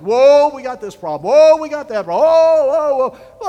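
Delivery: mimicking worried disciples, hammed-up; panicky worrier. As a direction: play a worrier fretting over problems. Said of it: "there are people like that".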